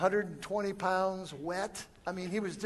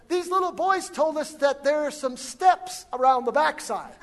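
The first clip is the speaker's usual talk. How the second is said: raised, louder voice quoting the escort; calling out; 8 semitones higher, 10 dB louder than usual. Retold or imitated. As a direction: call it up to someone on a mountain.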